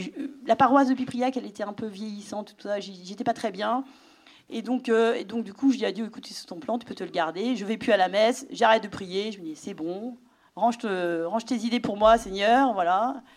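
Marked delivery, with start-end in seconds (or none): 6.1-13.2 angry at God. Retold or imitated. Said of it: "j'étais très en colère".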